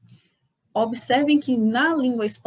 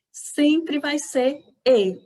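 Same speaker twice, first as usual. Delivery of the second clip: slow and a bit higher on "E"; slow, stressed; 5 semitones higher, 3 dB louder, much slower than usual. Shown as a demonstration. Teacher stressing that E is always closed. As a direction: drag it out to drive the rule home. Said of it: "um som fechado".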